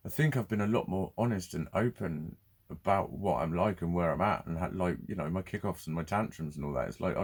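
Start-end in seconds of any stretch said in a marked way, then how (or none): none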